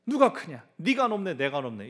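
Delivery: mock disciples' quarrel; bickering disciples. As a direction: argue over who's greatest.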